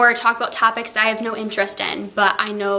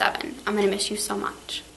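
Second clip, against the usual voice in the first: tearful goodbye; 6 dB quieter than usual. Real, not acted. Teacher's tearful farewell to students.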